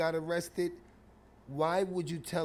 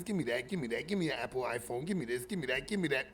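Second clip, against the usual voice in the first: quick run of low, quieter demands; rapid-fire robber; 3 semitones lower, 3 dB quieter, faster than usual. Acted. Kid robbing coffee shop patrons, rapid-fire demands. Acted robbery in retold story.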